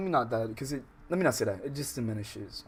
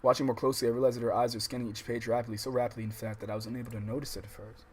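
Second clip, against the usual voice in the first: steady read-aloud voice for the novel; calm visual novel reading; story narration. A narrator's reading.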